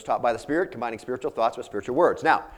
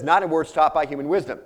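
"Not in words taught by human wisdom" pitched higher and louder; emphatic; 5 semitones higher, 6 dB louder than usual. Retold or imitated. Preacher quotes Paul to the congregation, emphatic. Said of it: "says that really in the emphatic".

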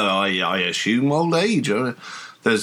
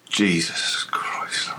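startled oath; 3 semitones lower, 4 dB quieter, much slower than usual. Acted. Coachman startled, horses rear.

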